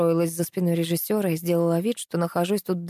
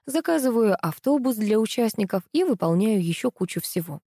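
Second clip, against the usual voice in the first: usual speaking voice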